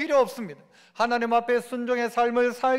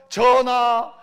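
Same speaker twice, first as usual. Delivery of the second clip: objecting minister; 7 dB louder, slower than usual. Acted. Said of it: "하는 사람이 있어요".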